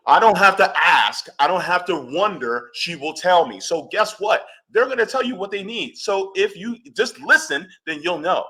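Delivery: laughing, worked-up lecture; heated insistence. Real, not acted. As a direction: drive each line home. Heated rant about listening.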